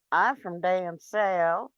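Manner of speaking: slow Southern drawl on the phrase; Southern accent. Shown as a demonstration. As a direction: show off a playful Southern accent. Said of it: "I could talk from".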